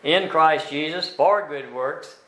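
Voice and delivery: "in" and "for" stretched and weighted, slow; stress on in and for. Shown as a demonstration. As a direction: linger on "in" and "for". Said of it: "So there we find".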